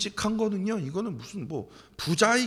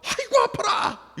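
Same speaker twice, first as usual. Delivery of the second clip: much higher, slow, put-on cry of pain; mock wail; 8 dB louder, slower than usual. Preacher mocking a man crying over a tug on his beard. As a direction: ham up a child-sized hurt. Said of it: "펑펑 울면서".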